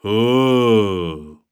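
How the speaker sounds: long drawn-out disappointed "ooh"; westchnienie zawodu. A narrator's reading. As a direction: sigh out a crowd's letdown. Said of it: "ludzie wzdychają". (przeciągłe westchnienie zawodu)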